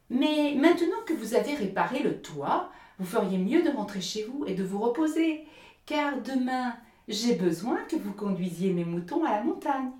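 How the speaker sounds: loud, lofty sermonising miller; the miller scolding Hans for laziness, loud and preachy; lecturing miller. Acted. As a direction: preach at him with self-righteous force. Miller gives orders, high and loud.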